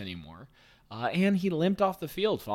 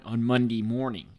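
"Monday morning" in a Baltimore accent; 4 dB louder than usual. Shown as a demonstration. Host redoing "Monday morning" as said in Baltimore, local accent. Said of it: "as they would say in Baltimore".

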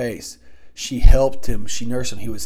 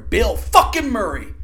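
high, loud fan shout; a burst of real fan excitement; excited cheer; 10 semitones higher, 8 dB louder than usual. Real, not acted. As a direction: cheer the name like a true fan. Fan cheering the actor's name.

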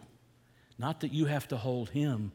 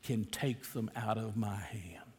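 whispering; 5 semitones lower than usual. Retold or imitated. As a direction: whisper it like a secret. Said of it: "and he says".

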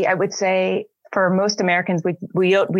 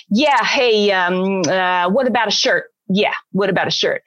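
rude American shopper. Retold or imitated. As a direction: play a brash American in a shop. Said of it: "an American going into a store and going".

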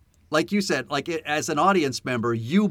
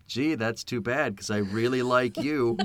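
dry sarcasm; 3 semitones lower than usual. Retold or imitated. Retelling an actor's comeback to an insult, dry sarcasm. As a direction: deliver it drily, feigning regret. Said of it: "God, just the best sarcasm".

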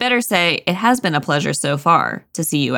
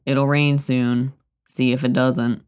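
gloomy Eeyore; 4 semitones lower, slower than usual. Retold or imitated. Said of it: "Eeyore is like".

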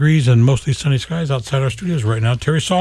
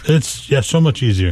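raspy whisper. Real, not acted. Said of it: "I have no voice".

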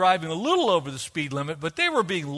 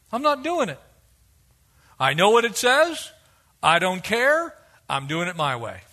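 defiant refusal; 3 dB louder than usual. Acted. Voicing a defiant believer.

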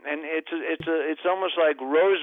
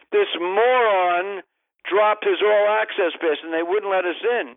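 annoyed complaint; 4 semitones higher, 4 dB louder than usual. Retold or imitated. Complaining to limo driver.

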